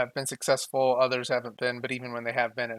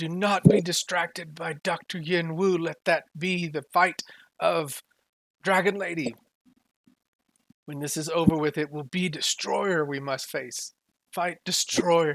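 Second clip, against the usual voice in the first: almost-begging, pleading outcry; 4 semitones higher than usual. Game master voicing a character during a battle, screaming and almost pleading. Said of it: "He is he's screaming and almost like pleading".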